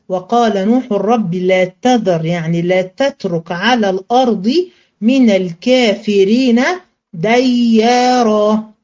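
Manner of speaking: slow, drawn-out recited verse; Quran recitation. Shown as a demonstration. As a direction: recite it slowly, lingering on ديارا. Teacher recites Noah's prayer verse. (تلاوة قرآنية بطيئة)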